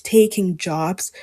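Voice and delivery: slow, set apart as a quoted phrase; "taking jobs" said slowly as if in scare quotes; mock-quoting a cliché; air quotes. Shown as a demonstration. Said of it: "quote unquote".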